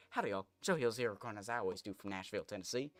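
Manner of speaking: put-on light Tennessee southern accent, YouTuber intro; Joe Hills southern. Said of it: "I kind of imitate Joe Hills".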